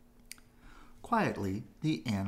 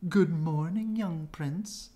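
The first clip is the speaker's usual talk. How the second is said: high, louder chipmunk greeting; squirrels calling; 8 semitones higher, 6 dB louder, slower than usual. A narrator's reading. Squirrels greeting the young prince, high calling voice. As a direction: call up a cheery good morning. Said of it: "looked up and called".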